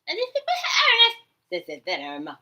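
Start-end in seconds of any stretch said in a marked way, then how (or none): 0.1-1.1 mocking laugh. Laughing mimic of the voices.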